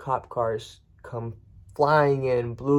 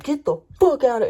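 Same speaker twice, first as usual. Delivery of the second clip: much higher, louder mock scream; imitating top-of-lungs yell; 13 semitones higher, 7 dB louder than usual. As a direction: blast it like a furious neighbor. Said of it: "he's yelling at the top of his lungs".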